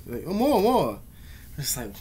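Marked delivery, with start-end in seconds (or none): 0.3-1.0 mock whiny high voice imitating the bully; greedy whine. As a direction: whine for more, like a greedy kid. Greedy bully begging for cigarettes.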